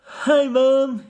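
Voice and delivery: high mouse-like squeak; squeaky miniature child's voice; tiny little voice. A narrator's reading. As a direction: pipe up like a tiny boy. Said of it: "A tiny little voice".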